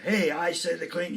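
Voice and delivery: a mild mock scold at full stretch; very emphatic mom. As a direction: mom on her third warning, lightly voiced. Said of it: "she's very emphatic".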